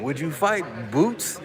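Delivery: high-pitched mock question; Blue. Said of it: "how Blue tried to sneak that in".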